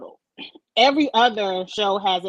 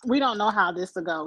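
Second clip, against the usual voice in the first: talking with the hiccups; a hiccup breaking the words. Real, not acted. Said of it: "Excuse me for hiccuping in the mic".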